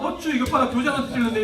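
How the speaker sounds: hammed-up annoyed teacher; sneering teacher. Teacher irritated at the parent's complaint, mock sneering. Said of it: "이러면서".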